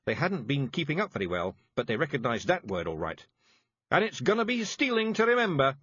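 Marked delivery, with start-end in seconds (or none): 3.9-5.8 mild yell. A narrator's reading. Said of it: "Rob yelled".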